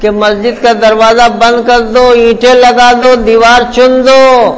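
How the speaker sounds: a hint of a firm elder insisting; mild mock forceful repeat. Elder insisting to the puzzled builders, mild mock force. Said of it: "حضرت نے کہا بڑی زور سے".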